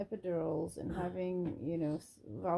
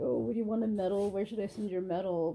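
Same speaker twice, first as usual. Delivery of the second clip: sarcastic mock; 6 dB louder than usual. Mocking commenters on birth stories.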